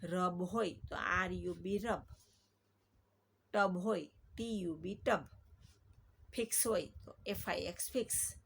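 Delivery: name each letter of "આર યુ બી", then say "રબ" whole; spelling out words. Shown as a demonstration. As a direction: read "એફ આઈ એક્સ" letter by letter, then blend into "ફિક્સ". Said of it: "સ્પેલિંગને કેવી રીતે વચાય".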